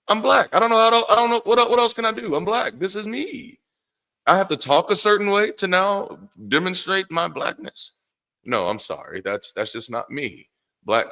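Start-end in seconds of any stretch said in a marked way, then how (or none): 0.1-7.9 high-pitched, incredulous pleading; exasperated squeal of self-defence; exasperated protest. Acted. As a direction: push the voice way up in mock-helpless protest. Exasperated plea against being told how to talk.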